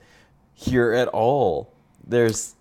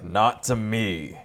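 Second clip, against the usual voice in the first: gruff action hero voice; much slower than usual. Retold or imitated. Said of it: "giving Plo my gruff, like, eighties action hero voice".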